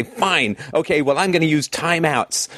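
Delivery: mock parent reluctantly giving in; grudging concession. Host voices parents turning to timeouts, grudgingly. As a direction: concede as an imitated parent, pitch lifted.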